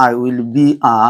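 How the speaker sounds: "a" said as Bengali আ; "a" উচ্চারণ আ-এর মতো; pronouncing a as আ. Shown as a demonstration. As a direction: end on an open "a" like আ. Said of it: "উচ্চারণটা করবো আমরা আ".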